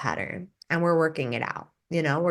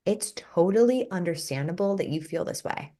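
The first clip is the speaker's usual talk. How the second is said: calm validating. Shown as a demonstration. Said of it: "And you pause".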